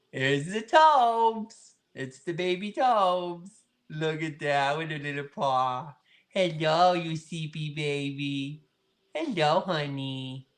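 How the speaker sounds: slow, gentle cooing at a pet. Real, not acted. Cooing over sleeping dog Toby.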